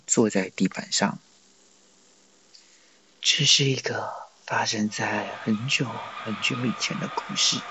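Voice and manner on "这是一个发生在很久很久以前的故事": soft hushed whisper. Acted. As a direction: breathe it like a secret. Boy begins telling a story.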